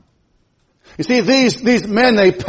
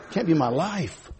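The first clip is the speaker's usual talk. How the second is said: much softer, slow murmured echo; quiet echo; 8 dB quieter, slower than usual. Acted. Preacher softly repeats to the church, hushed. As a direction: let it sink in, hushed.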